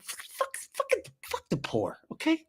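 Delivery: high, whiny mock Jesus complaining; hammed-up aggrieved Jesus. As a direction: complain like a put-upon martyr bro. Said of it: "He's like".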